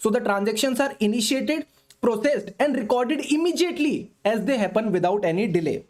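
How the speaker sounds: very slow, word by word, for notes; slow dictation. Shown as a demonstration. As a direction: dictate it so students can write. Dictating definition to students.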